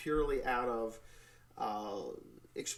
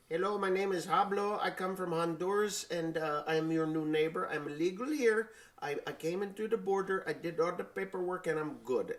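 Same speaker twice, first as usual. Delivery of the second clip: put-on higher-pitched makeshift Arab accent; attempted Arab accent; 4 semitones higher than usual. New neighbor introducing himself as legal, attempted Arab accent. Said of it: "that's my best Arab voice I got".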